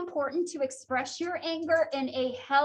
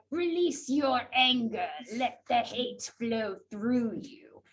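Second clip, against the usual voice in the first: Palpatine; 4 semitones lower, slower than usual. Retold or imitated. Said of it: "as Emperor Palpatine says".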